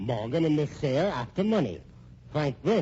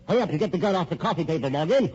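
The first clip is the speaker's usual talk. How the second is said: quick, higher, louder push; urgent; 5 semitones higher, 4 dB louder, faster than usual. Acted. Man urging Morgan to grab the gun, hurried and urgent. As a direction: rush him to grab the gun.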